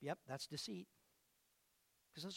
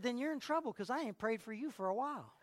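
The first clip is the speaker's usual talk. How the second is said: laughing retort; 4 semitones higher than usual. Retold or imitated. Pastor teasing a member with a laughing comeback. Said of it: "I said".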